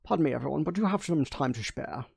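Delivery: light Sean Connery Scottish take; a lightly voiced Sean Connery Scottish burr; polite Sean Connery Scottish, softly asked. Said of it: "Sean Connery".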